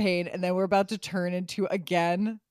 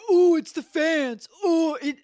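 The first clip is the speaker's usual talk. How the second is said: mocking the showrunner; 7 semitones higher, 7 dB louder than usual. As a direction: whine it like a feeble excuse. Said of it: "You sat there and you said".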